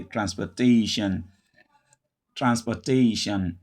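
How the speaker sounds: "transportation" as trans-puh-TAY-shun; schwa in OR. Shown as a demonstration. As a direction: say "transportation" joined up, stress on TA, weak middle OR. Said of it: "the O R becomes a schwa".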